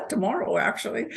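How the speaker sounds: laughing through the words; a light laugh breaking into "tomorrow, actually". Real, not acted. Laughs about the anniversary date.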